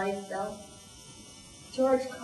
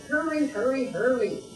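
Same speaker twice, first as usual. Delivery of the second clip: urgent; 3 semitones higher, 4 dB louder than usual. Acted. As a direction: rush them along. Firemen urging each other.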